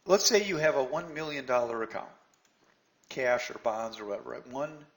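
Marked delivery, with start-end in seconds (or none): 4.5-4.8 drawn-out emphasis. Real, not acted. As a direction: stretch out One million dollars very slowly. Savouring a hypothetical sum.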